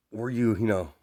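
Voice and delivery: mild scoffing jab; lightly acted sneering question. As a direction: toss it out as a taunt. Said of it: "as Bakugo scoffs".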